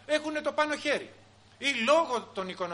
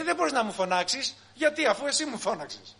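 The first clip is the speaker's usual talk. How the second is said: put-on raised, higher protest from the child; 5 semitones higher, 5 dB louder than usual. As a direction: talk back loudly, outraged at the unfairness. Child protests to shouting father.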